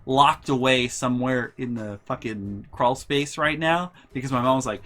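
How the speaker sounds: normal talking voice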